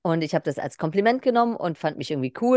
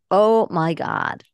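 excited; 2 semitones higher, 5 dB louder, much slower than usual. Retold or imitated. Excited New Yorkers retold.

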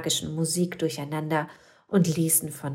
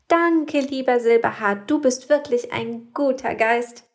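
much higher, louder thanks; happy grateful witch; 7 semitones higher, 5 dB louder than usual. Acted. Little witch thanking the ghost, high and loud with joy. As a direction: cry out with joy. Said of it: "rief Mimoselle und freute sich sehr".

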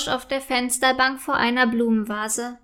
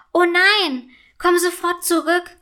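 raised, higher-pitched scold; 6 semitones higher, 4 dB louder than usual. A narrator's reading. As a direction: scold the runaway frog loudly. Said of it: "schimpft Paula". (schimpfend, laut und hoch)

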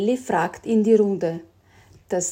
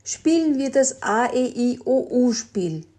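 higher, lively proposing voice; dad proposing the vowel game; dad's suggestion; 4 semitones higher than usual. Acted. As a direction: pitch the game brightly to the family. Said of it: "Papa Jelon schlug vor".

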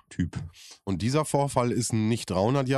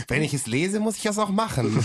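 giggling, pitched up through the laugh; 5 semitones higher than usual. Real, not acted. Laughing as he admits to his co-host he does it too. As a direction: laugh the confession out. Laughing admission after Sheldon joke.

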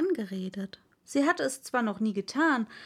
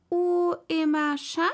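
schoolbook French; 6 semitones higher, 5 dB louder than usual. Acted. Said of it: "der erste Satz in ihrem französischen Konversationsbuche".

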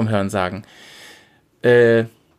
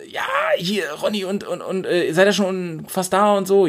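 squeaky phone voice; 4 semitones higher than usual. Retold or imitated. Caller Ronny voiced on phone.

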